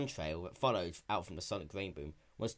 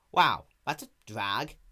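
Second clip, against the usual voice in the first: put-on young dragon voice; 6 dB louder, slower than usual. Spike voiced in story.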